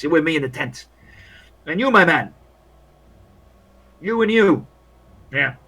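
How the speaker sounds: lightly voiced matey old hand; overly cheery soldier. Soldier advising the walking wounded on the nurse, chummy. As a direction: play him chummy, talking up his new pals. Game master plays a soldier.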